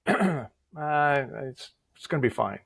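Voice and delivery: hesitant, halting reassurance; unsure. Retold or imitated. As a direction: imitate someone not quite sure it's fine. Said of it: "He didn't, he wasn't sure".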